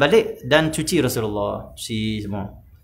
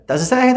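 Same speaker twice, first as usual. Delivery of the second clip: high, louder emphatic no; emphatic denial; 11 semitones higher, 5 dB louder than usual. Retold or imitated. The teacher flatly rejects the charge of heresy, emphatic. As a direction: deny it firmly and brightly. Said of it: "Tok Guru Rifai jawab".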